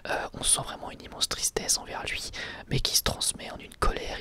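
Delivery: ordinary talk, nothing marked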